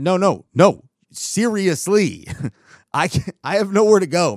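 mock insistent plea. Pleading laughingly with guard.

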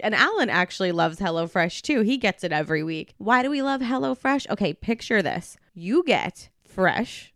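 scripted, upbeat sponsor read; podcast ad read. Acted. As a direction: pitch the sponsor to listeners, stressing key words. Reads a sponsor ad.

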